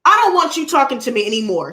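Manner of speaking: replaying the moment he got loud at the neighbor; commanding mock yell at the neighbor; retold loud telling-off. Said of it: "This is where I got loud".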